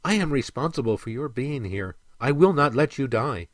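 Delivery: lightly voiced mermaid, firm and earnest; a touch of a female character voice, insistent; gently firm mermaid; resolute mermaid.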